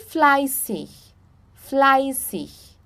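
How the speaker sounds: "fleißig" slowly with SS in the middle; ß as double S. Shown as a demonstration. Teacher showing a double S sound, "fleißig" with SS. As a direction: draw out "fleißig", ß as SS. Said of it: "som de dois S's".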